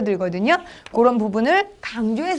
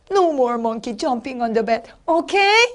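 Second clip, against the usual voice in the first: storybook mama; much slower than usual. Shown as a demonstration. Mama monkey scolding in story.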